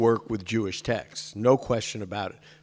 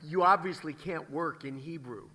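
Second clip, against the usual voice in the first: muttered retort; 3 semitones higher, 9 dB quieter than usual. Retold or imitated. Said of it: "And I'm like".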